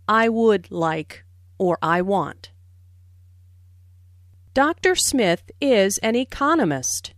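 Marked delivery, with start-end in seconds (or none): 4.5-7.1 economist stressed on its second syllable, eCONomist. Shown as a demonstration. Teacher modelling stress on economist for learners. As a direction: lean on economist as the new information. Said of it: "Notice the stress on economist".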